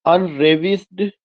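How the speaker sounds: very slow, word by word with long gaps; slow dictation. Shown as a demonstration. Teacher dictating a Keats line slowly to the class. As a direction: read the line out slowly for students to copy.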